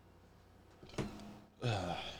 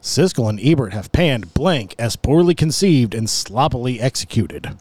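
game show voice; 2 semitones lower than usual. Shown as a demonstration. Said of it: "had to say it in my game show voice".

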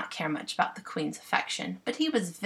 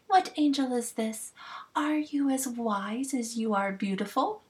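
slightly higher, adoring queen voice; a hint of a smitten queen; lightly voiced fairy queen; 5 semitones higher than usual. Titania voiced in the story.

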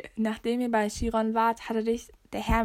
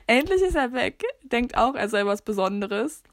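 snooty relief. Pretend. Reading a quiz answer to her friend, mock snooty. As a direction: sniff him off like a snob.

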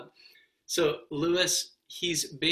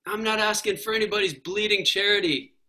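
lightly voiced indignant ghost; quoting the ghost; 5 semitones higher, 4 dB louder than usual. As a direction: retell his stubborn line. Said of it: "I love that when he's like".

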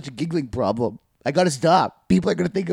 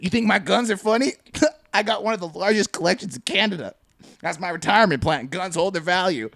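higher-pitched mock indignation; defensive boasting; 6 semitones higher than usual. Offended gun owner defending his collection, mock defensive. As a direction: defend your prized collection, slightly hammed-up.

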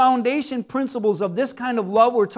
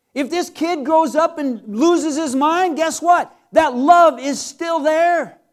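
preaching emphasis; 2 semitones higher, slower than usual. Real, not acted. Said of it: "preaching emphasis".

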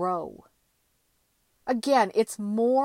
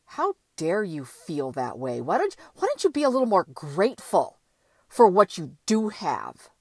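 guilt-tripping inner voice; 4 dB louder than usual. Retold or imitated. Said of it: "conversations I would have with myself".

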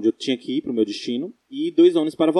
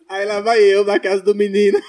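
yelling; 6 semitones higher, 5 dB louder than usual. Real, not acted. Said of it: "Ai, ele tá gritando".

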